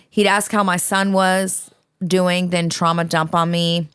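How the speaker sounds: slowed-down, careful reading of the letter. Shown as a demonstration. Host reading a long listener letter aloud, slowly. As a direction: read it slowly and deliberately. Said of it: "I'm gonna read like this in a minute".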